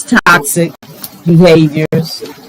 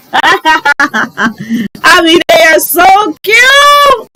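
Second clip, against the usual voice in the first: excited; 8 semitones higher, 4 dB louder, much slower than usual. Real, not acted. Gushing over grandbaby's outfit.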